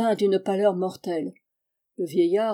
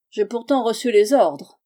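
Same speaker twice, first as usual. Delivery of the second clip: exclaiming; 2 semitones higher, 5 dB louder than usual. Acted. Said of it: "s'écria le vieux gredin".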